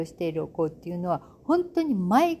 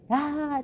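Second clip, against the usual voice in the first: imitated sleep yell; 9 semitones higher than usual. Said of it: "っていう感じで".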